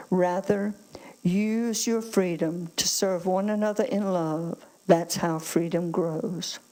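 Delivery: firm, projected Bible reading to a congregation; emphatic scripture reading. Acted. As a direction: read the verses out with weighty emphasis. Resumes reading Scripture aloud.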